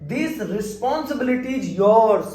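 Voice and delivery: slow, with yours drawn out and falling at the end; slow model sentence. Shown as a demonstration. Teacher slowly modelling This responsibility is yours. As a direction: lean into yours as the answer word. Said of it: "देखिए".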